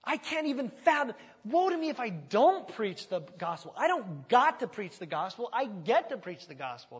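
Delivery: high, loud, passionate outburst; voicing Paul. Preacher voicing Paul's passion to the church, high and loud. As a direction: make it sound unthinkable not to preach. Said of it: "He was just like".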